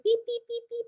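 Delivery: squeaky high little beeps; mock tiny beeping. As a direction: make it sound tiny and squeaky. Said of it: "they hear beep".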